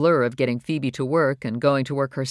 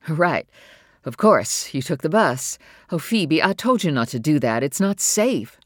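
louder, worried, sharp scolding; sharp with worry; 5 dB louder than usual. Acted. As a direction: scold her out of fear for her safety. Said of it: "her voice was sharp with worry".

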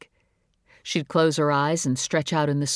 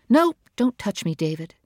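sharp, higher, louder refusal; angry rebuff; 6 semitones higher, 3 dB louder than usual. Acted. Wife pushing her husband away, sharp and angry. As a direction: push him away with your voice.

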